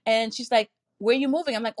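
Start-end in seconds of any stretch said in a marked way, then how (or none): 1.0-1.6 eager question. Retold or imitated.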